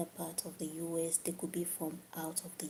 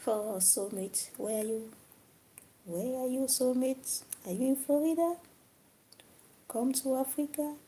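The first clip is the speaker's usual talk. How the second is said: calls building higher and louder; calling out to soulmate; 6 semitones higher, 5 dB louder than usual. Pretend. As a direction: shout across the ocean to a soulmate in Florida.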